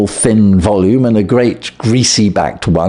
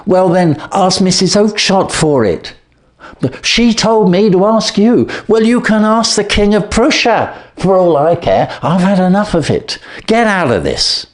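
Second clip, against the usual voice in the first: furious shout; 10 semitones higher than usual. Acted. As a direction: drive him off the stall. Salesman drives man away shouting.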